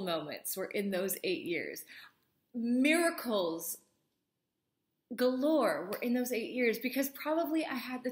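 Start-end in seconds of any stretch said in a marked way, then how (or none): 2.5-5.9 slow whisper, almost reverent; whispered awe. Real, not acted. To solo parents, recalling miracles, slow awed whisper. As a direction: breathe the word out slowly in wonder. Awed aside about answered prayers.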